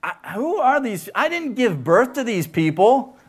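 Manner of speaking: Moses complaining. Retold or imitated. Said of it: "And he asks".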